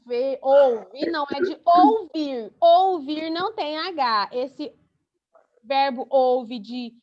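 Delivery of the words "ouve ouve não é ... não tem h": slow, deliberate "ouvir" with clear stress; slow explaining stress. Shown as a demonstration. Teacher slowly explains ouvir has no H. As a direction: spell it out slowly for the class. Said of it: "teacher explains spelling".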